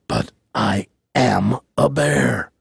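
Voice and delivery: slow, deliberate bear protest; insistent bear. A narrator's reading. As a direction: spell it out slowly as the bear. Bear insists once more.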